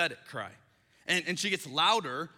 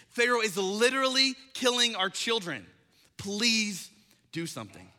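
higher, slowing cry to God; weeping plea; 4 semitones higher, 3 dB louder than usual. Acted. Israelites crying out to God over their children, acted anguished plea. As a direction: plead in acted anguish, no real tears. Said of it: "They are weeping".

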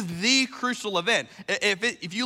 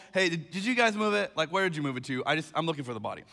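offhand imitation, getting softer and lower; normal, casual asking; 3 semitones lower, 4 dB quieter, faster than usual. Mary casually asking two strangers about the missing body, unfazed. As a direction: ask casually, as if nothing is unusual. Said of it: "It's, like, such a normal".

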